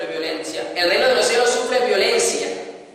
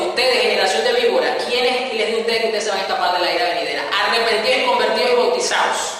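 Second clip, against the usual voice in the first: preacher rebuking Pharisees; faster than usual. Retold or imitated. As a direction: retell John scolding the Pharisees with some force. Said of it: "le decía a los fariseos". (Juan reprendiendo a los fariseos, con algo de fuerza)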